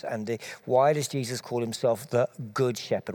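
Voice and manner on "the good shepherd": slight pause, then lean on "good"; stress on GOOD. Shown as a demonstration. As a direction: set "good" apart with gentle emphasis. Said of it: "emphasizing the word good".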